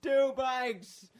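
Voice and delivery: very high, drawn-out mock holler; imitated heckler. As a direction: holler scornfully, stretching out the final words. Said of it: "then he's just like".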